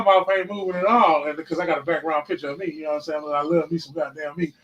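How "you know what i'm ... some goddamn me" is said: normal talking voice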